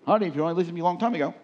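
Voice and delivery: fast, teasing told-you-so to his wife; mock told-you-so. Imagined gloat to his wife, mock smug and fast. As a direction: rattle off the gloat he held back. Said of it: "I wanted to go".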